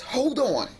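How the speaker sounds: imitating partner. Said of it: "he says".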